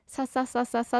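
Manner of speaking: even run of repeated "sa" on one level; evenly timed, unaccented string of syllables; imitating monotone Japanese. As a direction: mimic how Japanese sounds to foreign ears, sa-sa-sa. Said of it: "って聞こえるって言われた".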